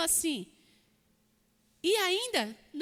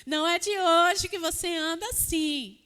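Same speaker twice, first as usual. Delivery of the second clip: voz de Deus imaginada; slower than usual. Retold or imitated. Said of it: "Eu imagino assim".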